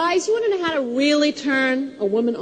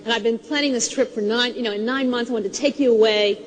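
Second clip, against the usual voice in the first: tender husband; 5 semitones lower than usual. Retold or imitated. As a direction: gently tell her how much you love her. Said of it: "he said".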